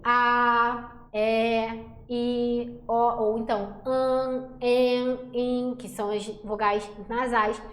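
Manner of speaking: A, é, i, o, an, en, in said out slowly and clearly; vowel demo. Shown as a demonstration. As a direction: sound out each vowel for the class to repeat. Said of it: "Faz aí comigo". (cada vogal bem pronunciada, devagar)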